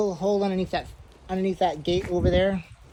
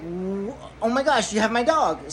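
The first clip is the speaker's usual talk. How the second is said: excited; 3 dB quieter than usual. Retold or imitated. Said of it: "So I'm, like, super excited".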